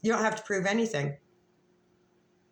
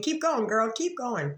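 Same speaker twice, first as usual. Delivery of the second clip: higher cheering voice; voicing her phone; 5 semitones higher than usual. Quoting her phone urging her on, in a high cheering voice. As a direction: egg yourself on like the phone. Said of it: "my phone is saying".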